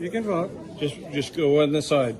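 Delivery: calm turning angry. Real, not acted. Poll worker escalating argument.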